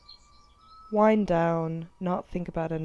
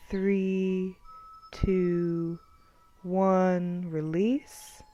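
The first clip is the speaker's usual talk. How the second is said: measured body-scan guidance, long pauses; guided meditation; 3 dB quieter than usual. Acted. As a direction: count them through tensing and releasing.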